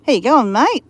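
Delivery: put-on Australian accent. Shown as a demonstration. Vlogger showing viewers how Australians greet a mate, put-on Australian accent. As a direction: bung on a bit of Australian. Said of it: "bung on a little bit of Australian".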